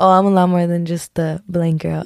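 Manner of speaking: ordinary talk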